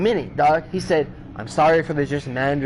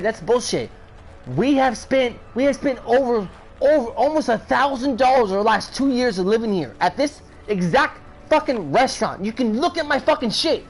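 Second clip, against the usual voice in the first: retold angry rant; 6 semitones higher than usual. Chewing out the manager.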